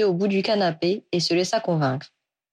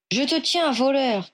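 lightly voiced goblin, pitched higher; a hint of a sneering goblin catching his thief; mild goblin voice, higher, grimacing; 5 semitones higher, slower than usual. A narrator's reading. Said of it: "grimaça le gobelin".

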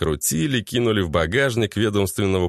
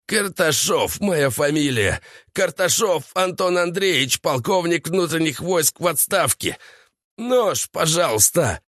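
tearful pleading; 7 semitones higher than usual. A narrator's reading. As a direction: beg through tears. Tortured captive pleads crying.

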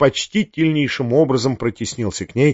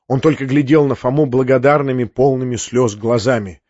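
ordinary delivery, nothing marked

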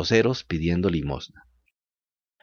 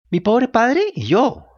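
put-on pleading boy voice; 11 semitones higher, 3 dB louder, slower than usual. A narrator's reading. Pinocchio answers in distress.

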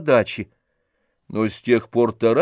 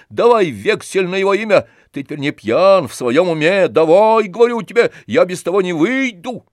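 higher, loud hectoring rant; angry demand; 6 semitones higher, 4 dB louder than usual. A narrator's reading. Tarantyev demands a bill of exchange, loud and angry. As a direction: demand it with fist on table.

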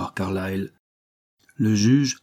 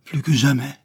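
higher-pitched, tender declaration; a touch of lovestruck sighing; sighed avowal; 5 semitones higher, 3 dB louder than usual. A narrator's reading. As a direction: sigh it out lovingly. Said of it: "soupira-t-elle".

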